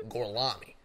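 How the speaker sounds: loud hammed-up Italian name; bad Italian accent. Brad Pitt's character giving his fake name, mock Italian accent. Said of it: "Brad Pitt".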